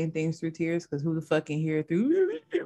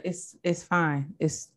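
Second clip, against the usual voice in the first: slow soothing; slower than usual. Retold or imitated. Quoting therapist.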